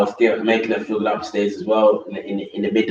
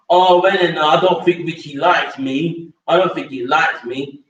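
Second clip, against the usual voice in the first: mock whiny complaint; 5 semitones higher than usual. The sister whining to Eleanor about Richie, mock higher voice. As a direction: parody her telling tales to Eleanor.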